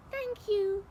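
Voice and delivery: high, relieved thanks; grateful cry. Acted. Witch thanking the animals, high and grateful. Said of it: "the grateful witch cried".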